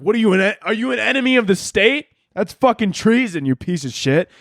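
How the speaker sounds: a mock furious stranger scolding a kid over ketchup; mock outrage. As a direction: play the outraged hot dog purist, half joking. Chicagoans berating ketchup eater.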